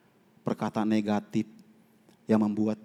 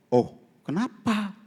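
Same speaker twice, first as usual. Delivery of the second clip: surprised oh; 8 semitones higher, slower than usual. Retold or imitated. His surprised reply on phone.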